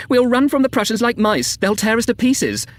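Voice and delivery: high, excited cry; transported with delight. A narrator's reading. Unfamiliar voice crying from afar, delighted. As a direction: crow it out, slowing at the end. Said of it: "one literally transported with delight".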